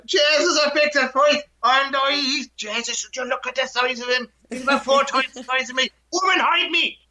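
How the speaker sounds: put-on a scared giant begging his wife in Irish accent; panicky Irish accent. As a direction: Finn pleading with his wife to hide him, Irish accent. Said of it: "there he told his wife".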